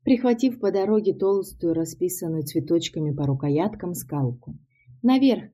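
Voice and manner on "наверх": high, loud urgent command; shouted order. A narrator's reading. Man running past sends the woman upstairs, shouted order. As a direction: call it out as you run past. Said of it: "крикнул, пробегая мимо меня".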